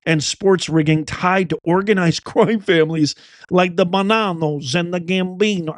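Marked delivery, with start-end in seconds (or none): 3.9-5.8 mob family names with an Italian flourish; mock Italian accent. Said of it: "I have to say it like that".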